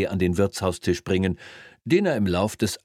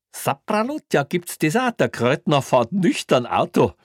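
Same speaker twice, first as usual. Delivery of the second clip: very high, loud mock astonishment; astonished cop; 9 semitones higher, 5 dB louder than usual. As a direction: exclaim in gleeful disbelief. Cop astonished at sober reading.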